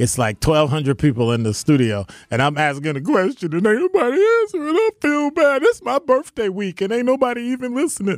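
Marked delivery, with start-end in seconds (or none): 3.5-8.2 put-on sobbing, very high pitched. Host complaining on his show that nobody in the studio listens, fake crying. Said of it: "Was that a good enough cry?".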